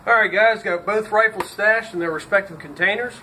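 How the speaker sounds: talking with a dip in; words around a lip of snuff; lip full of dip. Real, not acted. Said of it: "Got a dip in my mouth".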